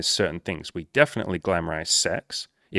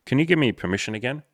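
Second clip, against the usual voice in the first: mock pleading follower; 6 semitones higher, 5 dB louder, faster than usual. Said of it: "you'll be like".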